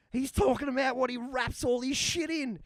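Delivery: loud, high, laughing reveal; laughing realisation. Retold or imitated. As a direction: blurt it through laughter.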